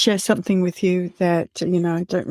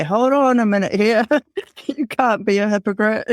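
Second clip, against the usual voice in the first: sassy questioning; 3 semitones higher than usual. Retold or imitated. Daughter calling out mom for being a hypocrite, imitated sassy questioning. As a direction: play a teasing mock objection, with a laugh midway. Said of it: "she used to question me".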